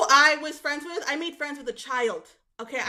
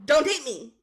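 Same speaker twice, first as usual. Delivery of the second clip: higher mock scolding; 4 semitones higher than usual. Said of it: "And I was like".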